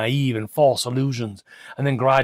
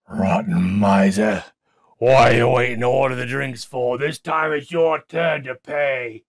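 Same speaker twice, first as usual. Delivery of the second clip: friends jeering; 2 semitones higher, 5 dB louder than usual. A narrator's reading. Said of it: "his friends went on".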